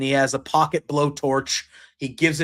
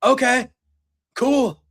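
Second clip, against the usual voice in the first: shocked inner voice; 6 semitones higher than usual. Retold or imitated. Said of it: "and it's like".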